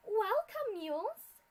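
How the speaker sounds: big booming welcome, loud and high; large, powerful commanding greeting. A narrator's reading. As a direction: boom it out like a commander. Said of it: "a large and powerful voice commanded".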